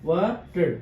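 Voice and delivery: ওয়াটার split into ওয়া and টার; two separate beats on ওয়াটার; syllable by syllable. Shown as a demonstration. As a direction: put a small break inside ওয়াটার. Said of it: "ভাগ ভাগ করে উচ্চারণ".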